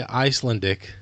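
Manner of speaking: "Icelandic" as ICE-lun-dik; weak, swallowed "lan" in "Icelandic"; reduced middle syllable. Shown as a demonstration. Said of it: "that doesn't sound right".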